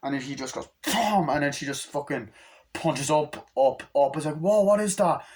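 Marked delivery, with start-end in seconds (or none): 0.8-1.3 high, punchy "boom" effect; imitated impact noise. Imitates a blow. 4.4-5.2 higher, louder startled "whoa"; acted astonishment. Acts out astonished reaction.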